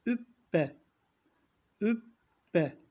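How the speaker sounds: Übbe with the b held double; doubled b with ötre. Shown as a demonstration. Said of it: "Ötre harekesi var".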